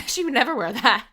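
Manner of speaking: giggling mock indignation; laughing echo. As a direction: repeat it with a laugh, mock outrage.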